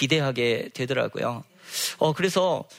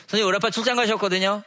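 put-on higher, louder and fast, like an eager kid with an excuse; excited child's protest; 5 semitones higher, 4 dB louder, faster than usual. A pupil excitedly tells the teacher his dad is away on a trip. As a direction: blurt the excuse out quickly.

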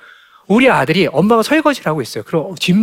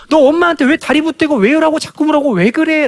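scolding mother; 8 semitones higher, 3 dB louder than usual. Retold or imitated. Mother scolding her child.

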